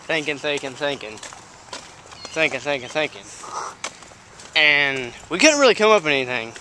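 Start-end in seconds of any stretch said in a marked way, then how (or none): 0.1-3.3 soft, low repeated word; pondering murmur. Acted. Storyteller acting out thinking about a wish, quiet pondering. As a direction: let it fade as if lost in thought.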